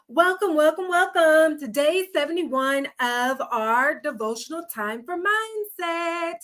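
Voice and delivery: breathless and winded; catching breath between words. Real, not acted. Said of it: "Need to catch my breath for a second".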